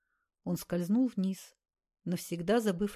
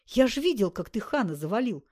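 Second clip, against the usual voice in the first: восторженный выкрик; 3 semitones higher, 4 dB louder than usual. Acted. Восторженный бандит.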